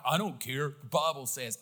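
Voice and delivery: curt, dismissive jerk tone; arrogant dismissal. Shown as a demonstration. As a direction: brush them off like you don't care. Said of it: "present that in an arrogant manner".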